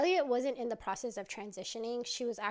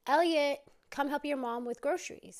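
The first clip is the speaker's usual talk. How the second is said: loud, raised dad's holler; calling from downstairs; 4 semitones higher, 6 dB louder than usual. Retold or imitated. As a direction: call a kid down to help. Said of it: "from downstairs the dad go".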